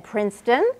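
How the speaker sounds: "Princeton" said as a rising question; upspeak. Shown as a demonstration. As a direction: tilt "Princeton" up at the end like a question. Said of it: "You hear how my voice went up?".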